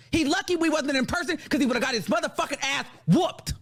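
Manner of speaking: combative, indignant tirade; angry rant. Real, not acted. Furious that complaints about Al were ignored, combative. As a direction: warn them not to mess with you.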